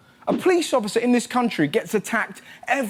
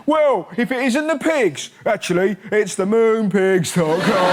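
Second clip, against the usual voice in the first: mock sponsored cop; 2 semitones lower than usual.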